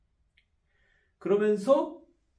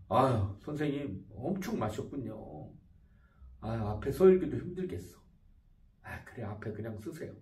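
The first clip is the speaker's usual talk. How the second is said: gently protect the tipsy teacher; a lightly voiced caring parent; caring, yielding; 7 semitones lower, 5 dB quieter than usual. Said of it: "이렇게 양보하고 보호를 해주겠죠".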